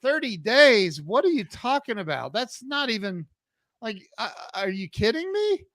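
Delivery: incredulous. Retold or imitated. Incredulous reply to quitting clients.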